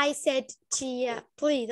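I said tea bem separado e lento; separated words. Shown as a demonstration. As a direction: palavras separadas, devagar. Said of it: "Não é". (pronúncia separada)

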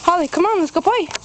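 high, eager call to the dog; excited calling. Real, not acted. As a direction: call her in bright and high.

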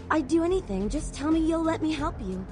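earnest, insistent begging; eager pleading. Acted. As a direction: plead to be allowed to help. Devoted fan begging to help.

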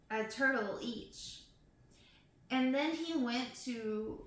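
measured storybook recital; expressive poem narration; poem reading. Acted. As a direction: read it aloud line by line, with pauses. Reads next poem aloud.

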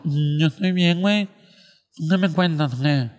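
thick, blocked-nose speech of the joke's stammerer; nasal gangoso voice. Acted. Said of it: "que era un gangoso".

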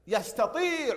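يستطيع with tii held long; saturated long ii. Shown as a demonstration. Teacher modelling the answer, long ii. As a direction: stretch the vowel after the taa in يستطيع. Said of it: "نشبع حرف الطاء بالكسرة".

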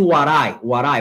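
"what I" said as "war-ai". Shown as a demonstration. Teacher checking students can say it, "what I" with an R. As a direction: tap the T of "what I" like an R. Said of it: "se pronuncia como R".

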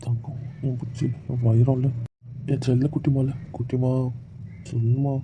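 tender coaxing. Acted. Husband coaxes his wife tenderly.

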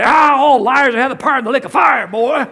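pompous dad preaching at his son; dad lecturing son about lies; mock sermonizing dad.

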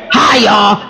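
a hint of Nashville twang; Pastor Tim impression. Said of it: "Yeah, just like that".

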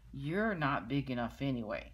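loud scornful taunt; ladybug voice. Acted. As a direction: sneer it down at him. Grouchy ladybug taunts whale.

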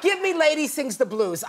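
belting out the title with delight; calls out the title like a fan; excited shout. Real, not acted. Exclaims favorite movie.

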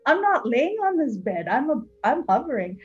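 hammed-up astonished dreamer; mock amazement. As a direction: act out giddy disbelief at floating. Acting out the dreamer's future claim.

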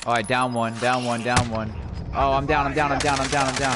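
shouted game callouts, rising; loud urgent callout. Real, not acted. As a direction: yell it to the squad. Callouts while being downed.

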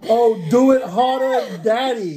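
high, slow, breathy-free hammed-up moan line; mock seductive. Teasing friend with mock sex talk.

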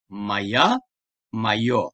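Maya and mayo read with a clear y glide; ya and yo sounds. Shown as a demonstration. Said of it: "ya ve yo olarak okuyorum".

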